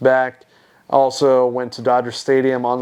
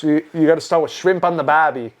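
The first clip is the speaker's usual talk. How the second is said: warm-up phrase in a rough Aussie-Kiwi accent; attempted New Zealand accent; 3 semitones higher, faster than usual. Shown as a demonstration. Testing the accent for a friend, mock Australian accent. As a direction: find the accent through a stock Aussie phrase. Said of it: "trying to do the accent".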